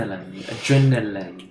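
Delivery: "Adrenaline" in an Irish accent; Irish accent demo. Shown as a demonstration. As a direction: demonstrate the tricky word in Irish. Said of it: "try and say adrenaline in an ... Irish accent".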